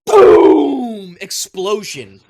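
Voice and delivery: booming explosion, slow and loud. A narrator's reading. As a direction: blast the word boom out. GM narrating sudden explosion.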